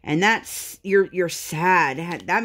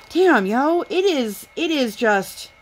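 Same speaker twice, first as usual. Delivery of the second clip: exasperated outburst; 8 semitones higher, slower than usual. Real, not acted. Mom venting about exhausting toddler, frustrated outburst. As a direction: let it burst out of you.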